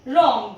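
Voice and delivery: wrong said as rong, starting on the R; silent W. Shown as a demonstration. Teacher to students, modelling wrong with a silent W. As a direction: begin wrong on the R with no W. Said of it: "डब्ल्यू आर O N G".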